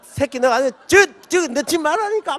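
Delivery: high, heated mock cursing. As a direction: swear at the player. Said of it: "욕을 하면서". (욕하며 화내는 흉내)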